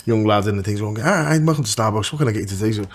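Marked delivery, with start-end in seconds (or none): 1.0-2.7 imitating the Starbucks worker. Drive-thru worker voiced.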